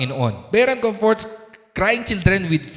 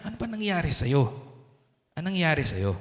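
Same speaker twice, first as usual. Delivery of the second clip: soft, lowered questioning, imitating a comforter; gently asking; 3 semitones lower, 5 dB quieter, faster than usual. Holy Spirit asking the crying believer what happened, gently. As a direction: ask softly what happened, as if consoling. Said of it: "So, tinitignan niya".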